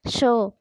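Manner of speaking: श as the big Hindi sh, said on its own; demonstrated SH sound. Shown as a demonstration. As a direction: isolate the hushing sh of श. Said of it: "बड़ी श जो होती है हमारी हिंदी की".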